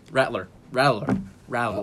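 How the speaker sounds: Rattler repeated with shifting middle sounds; unsure attempts at Rattler; trying out pronunciations. Real, not acted. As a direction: test different ways to say Rattler. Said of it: "I don't know how to say it".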